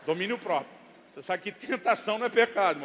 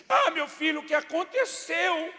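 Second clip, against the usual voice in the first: high, drawn-out mock motherly fussing; mother's concerned question; 10 semitones higher, 6 dB louder, slower than usual. Wife asks fallen son what happened, high exaggerated concern. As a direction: coo it high and slow, like an alarmed mother. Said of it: "Primeira pergunta da minha esposa pro menino".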